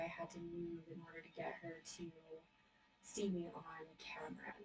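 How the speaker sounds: distant, off-mic voice; speaking from across the room; far from mic. Real, not acted. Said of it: "sorry if I sound farther away".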